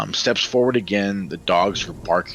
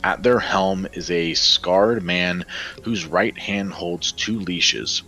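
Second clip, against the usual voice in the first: game master narration. A narrator's reading. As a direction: paint the night march with weight. GM narrates the scene.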